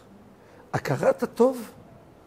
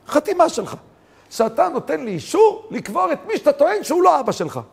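pressing request; 9 semitones higher than usual. Retold or imitated. Volunteer demands the signature.

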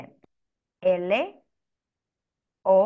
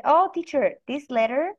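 lightly voiced kid, higher and louder; a hint of a child calling to teacher; imitating young students; 6 semitones higher, 4 dB louder than usual. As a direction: pipe up like an eager pupil. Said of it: "So they said".

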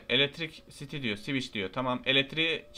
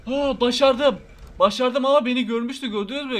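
excited relief; 7 semitones higher, 6 dB louder than usual. Real, not acted.

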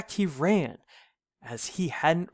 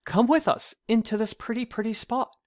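much higher, quick lamb voice; calling lambs; 9 semitones higher than usual. A narrator's reading. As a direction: call sweetly like a little lamb. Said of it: "called to the frightened hare".

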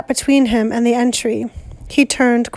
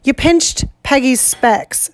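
breathlessly. Acted. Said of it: "said Ralph breathlessly".

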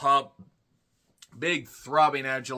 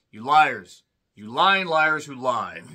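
louder, slow mock outrage; mock angry rant; 6 dB louder, slower than usual. Reviewer scolds the announcers over attendance, mock angry. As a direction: hammer the accusation, half joking.

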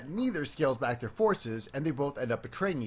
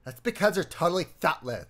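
put-on valley girl voice; 4 semitones higher, 4 dB louder than usual. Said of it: "I sound like a valley girl now".

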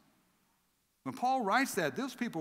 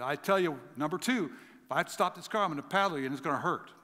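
louder, exasperated mother's warning; frustrated threat; 5 dB louder than usual. Retold or imitated. Mother in the car warning her noisy son, frustrated. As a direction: bark out the final warning to the kid. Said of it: "She was getting so frustrated".

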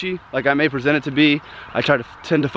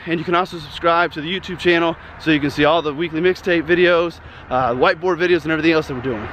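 out of breath. Real, not acted. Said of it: "I'm getting winded".

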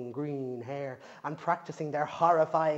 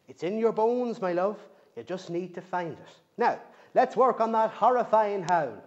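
louder, firm but loving gran; encouraging granny; 3 semitones higher, 4 dB louder than usual. Acted. Granny shows Bridget the family photos. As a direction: buck her up.

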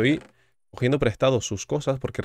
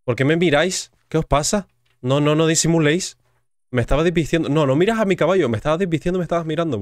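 loud, high-pitched accusing protest; hammed-up offended outburst; mock indignation; 6 semitones higher, 7 dB louder than usual. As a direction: scold the onlookers in playful outrage. Playful accusation of staring villagers.

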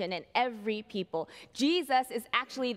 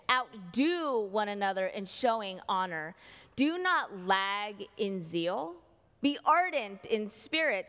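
scripture reading. Acted.

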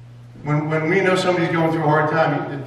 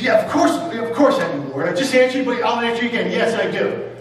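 lightly voiced Peter, a touch higher and insistent; a hint of Peter, patiently insisting; Peter answering again; 5 semitones higher than usual. Peter reassuring Jesus a second time, mildly insistent.

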